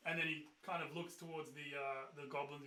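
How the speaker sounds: usual speaking voice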